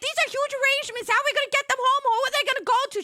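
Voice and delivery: high, loud, quick fretting; giddy panic. Retold or imitated. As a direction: worry out loud, laughing at the mess. Panicked questions about arrangements.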